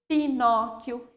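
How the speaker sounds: Pinóquio with QU as a plain k; silent U. Shown as a demonstration. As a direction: say "Pinóquio" as pi-NO-kiu. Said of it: "formam também um único som".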